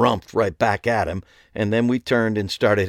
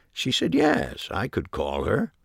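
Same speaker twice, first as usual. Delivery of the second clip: fond repeat; 2 semitones higher, 3 dB quieter than usual. Acted. Old man recalling his wife, smiling fondly. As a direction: relive the happy moment. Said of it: "he repeated, smiling at the memory".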